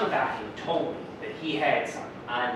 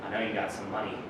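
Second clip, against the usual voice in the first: threatening demand; 8 dB louder than usual. Retold or imitated. Robbery at gunpoint, retold.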